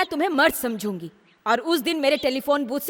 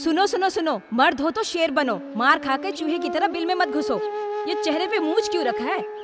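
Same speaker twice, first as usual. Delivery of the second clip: higher-pitched taunting pep talk; goading scolding; 4 semitones higher than usual. Acted. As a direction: shame him into standing up for himself. Woman goads man to fight back. (ताने मारकर उकसाना)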